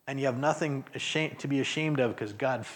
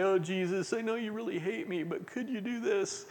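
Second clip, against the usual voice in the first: higher, quick, softer whiny plea; mock whining; 6 semitones higher, 4 dB quieter than usual. Preacher mocking a self-pitying prayer to Jesus, whiny. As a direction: mimic a self-pitying whine. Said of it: "come to Jesus whining and say".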